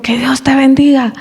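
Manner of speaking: "Que Dios te bendiga" said with mock annoyance; angry blessing. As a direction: grudgingly bless him while irritated. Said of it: "Así, pero con enojo".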